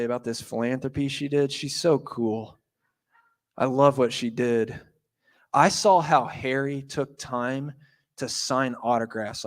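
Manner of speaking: a hint of a starstruck fan gushing; imitating a fangirl. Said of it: "The thing about fanboys and girls is".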